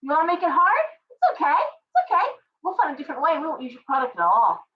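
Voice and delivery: high, defiant mock voice of fed-up shoppers; mock defiance, pitched high; defiant consumers. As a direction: toss it off like a customer calling their bluff. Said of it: "so it's like".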